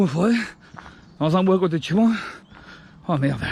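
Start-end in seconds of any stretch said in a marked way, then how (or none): 3.1-3.4 short winded after the climb; breathless, gasping between words; out of breath. Real, not acted. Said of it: "j'ai du mal à respirer".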